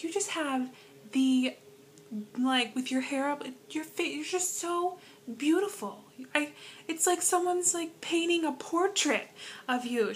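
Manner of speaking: imitating an elderly churchgoer raving, lifted up high; gushing old lady. Miss Rita gushing over the speaker after church, high gushing voice. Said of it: "She's like".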